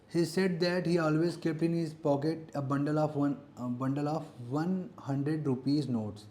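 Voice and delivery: very slow, word by word, like dictating to a class; slow dictation reading. Shown as a demonstration. Teacher reads a grammar question aloud to students, slow and deliberate. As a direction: read the exam sentence out slowly so students can follow.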